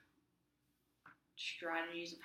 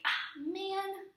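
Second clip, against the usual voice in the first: higher, louder rueful groan; grudging realization; 14 semitones higher, 7 dB louder than usual. Retold or imitated. Teen conceding mom is right, higher rueful sigh. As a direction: admit defeat with a groan.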